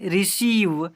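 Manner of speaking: रिसीव with EI said as a long "ee". Shown as a demonstration. Teacher showing pupils the EI rule, रिसीव with long ee. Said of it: "बड़ी ई से पढ़ते हैं".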